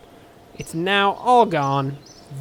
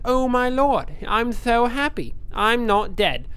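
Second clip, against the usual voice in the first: lightly voiced overwhelmed survivor, higher at first; a touch of hammed-up panic and joy; mock freaking out; 4 semitones higher, slower than usual. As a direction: play-act giddy relief at surviving. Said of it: "he's freaking out. He's like".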